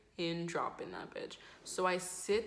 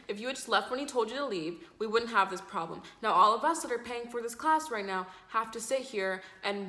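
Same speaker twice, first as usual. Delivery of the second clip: mildly acted reproach, pitched up; scolding classmate; 3 semitones higher, 4 dB louder than usual. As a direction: lecture the culprit, lightly mimicked.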